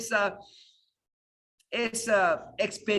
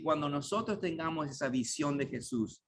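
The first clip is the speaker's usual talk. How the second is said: ordinary talk, nothing marked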